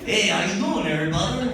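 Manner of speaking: put-on loud, friendly hail in a Hispanic accent. Another neighborhood guy greeting him, Hispanic accent. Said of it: "I apologize for this accent".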